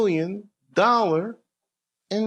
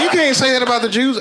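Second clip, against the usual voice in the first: louder, higher scolding cop; mock cop scolding; 6 semitones higher, 4 dB louder, faster than usual. Police scolding the drunk star, louder and higher. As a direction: play the cop telling him off, raised. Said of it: "Police like".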